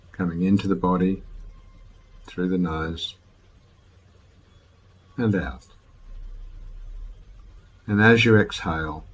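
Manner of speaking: calm, unhurried meditation guide with long pauses; guided meditation. Real, not acted. Teacher guiding listeners to follow the breath, calm guided meditation. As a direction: gently lead listeners through the breath, letting each phrase settle.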